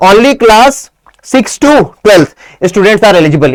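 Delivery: very slow dictation of the eligibility line. Shown as a demonstration. Teacher dictating the eligibility line to students, very slow. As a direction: read each word out slowly. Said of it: "ऐसा कुछ नहीं लिखा था".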